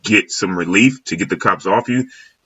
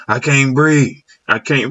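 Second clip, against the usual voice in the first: lightly mocking plaintive "I can't breathe"; mocking whine; 5 semitones higher, slower than usual. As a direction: parody the plea as a tired excuse. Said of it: "how you can't breathe, man?".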